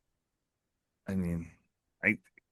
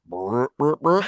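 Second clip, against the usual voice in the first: tape rewinding; 4 semitones higher, slower than usual. Pretend. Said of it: "I was expecting it to be louder this time".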